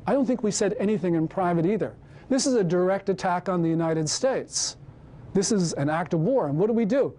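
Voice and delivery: heated, rising indignation; getting emotional. Real, not acted. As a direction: let the outrage build line by line. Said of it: "I'm sorry I'm getting emotional".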